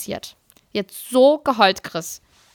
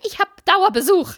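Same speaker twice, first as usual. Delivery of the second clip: whiny excuse; 9 semitones higher than usual. Retold or imitated. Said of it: "Ich so".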